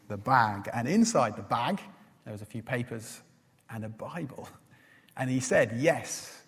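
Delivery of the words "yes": a hint of an Indian accent; quoting him in a mild Indian accent. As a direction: lightly imitate an Indian man's accent. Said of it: "in an Indian accent".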